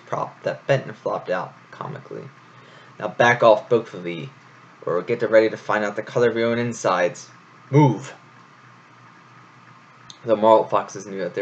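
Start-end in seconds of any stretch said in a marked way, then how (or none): 3.0-8.1 loud threat. Acted. Troupe threatens, louder.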